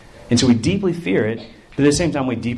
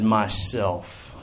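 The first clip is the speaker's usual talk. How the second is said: soft, low, falling voice; understated deep voice; 3 semitones lower, 5 dB quieter than usual. Acted. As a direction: say it low and solemn. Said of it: "Very deep and low".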